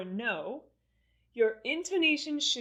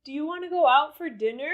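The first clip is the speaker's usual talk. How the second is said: higher, louder question with "dinner" drawn upward; rising intonation; 5 semitones higher, 5 dB louder, faster than usual. Shown as a demonstration. Teacher exaggerating for learners to copy, rising intonation on "dinner". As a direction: stretch "dinner" upward at the end. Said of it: "with the rising or falling intonation".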